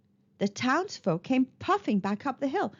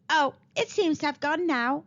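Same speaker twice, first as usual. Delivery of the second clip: sweetly; 5 semitones higher than usual. Acted. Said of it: "Arabella said sweetly".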